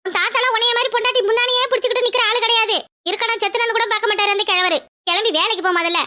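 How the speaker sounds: high-pitched, scornful harangue; indignant, derisive telling-off; scolding. Acted. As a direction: rattle off a grandmother's taunting rebuke. Grandmother mocks grandson by comparison.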